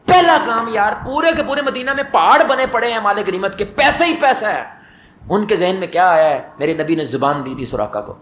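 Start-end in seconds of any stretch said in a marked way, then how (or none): 0.1-4.6 amazed excitement. Acted. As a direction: exclaim over mountains of spoils. Marvelling at the piles of spoils. (مالِ غنیمت کے ڈھیر پر حیرت بھرا جوش، اونچی آواز)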